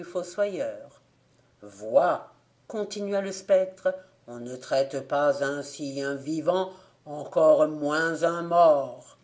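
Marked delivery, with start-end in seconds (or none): 1.6-9.2 lower, slow ghost voice, grave and reproachful; a dead man scolding the one who disturbed him. Acted. The ghost shows the gravedigger his wound, lower and slow.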